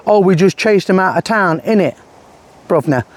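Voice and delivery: lightly mocked London geezer; a hint of fake Cockney; Tommy's fake London accent. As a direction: imitate a put-on London accent. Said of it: "I'm using this accent because Tommy's fake accent".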